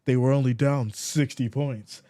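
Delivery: a hint of put-on commenter voice; mocking fan imitation. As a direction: needle him like a teasing fan. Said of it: "That's how you sound when you talk about it".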